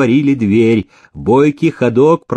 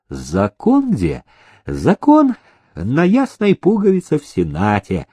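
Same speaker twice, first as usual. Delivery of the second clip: unruffled reply. Acted. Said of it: "с невозмутимым видом ответил".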